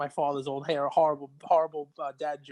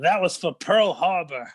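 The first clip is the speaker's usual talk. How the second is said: slow, raised-pitch comic payback; mock-defiant retort; 4 semitones higher, 4 dB louder than usual. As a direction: deliver the joke's accusation deliberately. Joke character justifies his punch.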